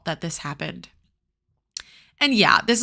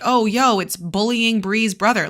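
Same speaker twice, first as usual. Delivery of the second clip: mocking bully quote; 3 semitones higher, 3 dB louder than usual. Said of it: "they are like".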